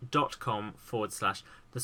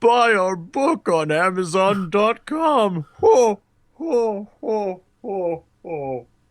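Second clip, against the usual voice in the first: put-on jolly christmas voice, higher and louder; 7 semitones higher, 9 dB louder than usual. Saying goodbye in a festive voice: Santa Claus impression. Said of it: "Here's my Santa the Claus impression".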